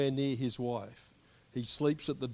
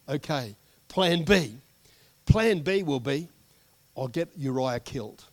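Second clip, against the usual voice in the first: David scheming; 6 dB louder than usual. Retold or imitated. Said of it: "So David says".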